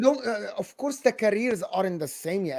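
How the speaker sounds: choppy breaking-up mic audio; scrambled voice. Real, not acted. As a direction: signal cutting in and out. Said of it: "Your mic is not working".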